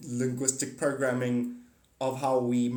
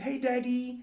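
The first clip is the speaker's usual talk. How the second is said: whiny troll; 10 semitones higher than usual. Retold or imitated. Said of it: "the troll saying".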